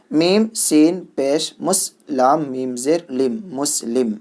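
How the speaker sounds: slow, deliberate letter-by-letter spelling; teacher dictating letters slowly; slow spelling drill. Shown as a demonstration. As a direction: call out each letter clearly for children to repeat.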